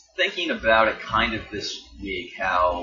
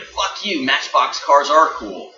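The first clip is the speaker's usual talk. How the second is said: raised, high-pitched imitation of screaming; half-hearted mock yell, pitched up; 5 semitones higher, 7 dB louder than usual. Host imitating Dave screaming about toy cars, mock scream. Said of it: "just, like, Dave screaming".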